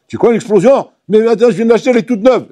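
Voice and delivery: plus aigu, protestation inquiète; protéger sa voiture neuve; propriétaire inquiet. Acted. (propriétaire inquiet pour sa voiture neuve)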